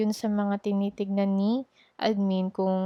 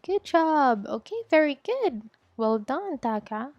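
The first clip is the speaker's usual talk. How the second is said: higher-pitched demo praise; praising the student; 4 semitones higher than usual. Shown as a demonstration. Teacher praises student after repeating, higher-pitched praise. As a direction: praise a pupil in a lifted teacher voice. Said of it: "Don't forget to praise the student".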